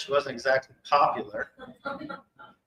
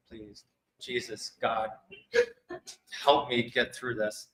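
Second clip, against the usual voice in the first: a hushed, imitated little prayer, much softer; mock prayer; 7 dB quieter than usual. Retelling his nervous prayer before the reading, hushed plea. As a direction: plead quietly to God under the breath.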